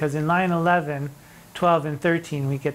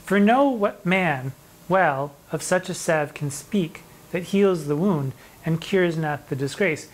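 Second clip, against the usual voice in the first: slow poem recital. Acted. Teacher reciting a sonnet to students, slow and measured. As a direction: read the verse slowly and deliberately, each word weighed.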